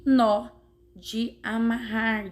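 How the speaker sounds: "nó" stressed with an open o, like "naw"; strong open ó. Shown as a demonstration. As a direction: show "nó" as the strong word, vowel wide open. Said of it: "é mais forte do que no".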